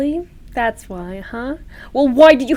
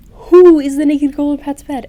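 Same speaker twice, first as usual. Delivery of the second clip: indignant demand; 3 semitones higher, 8 dB louder than usual. Acted. Girlfriend confronting Bruno.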